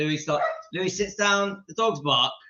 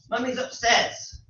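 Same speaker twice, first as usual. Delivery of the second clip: high, slow pet-talk; drawn-out, higher owner's voice; talking to dog; 6 semitones higher than usual. Real, not acted. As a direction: tell the dog in a raised, coaxing voice.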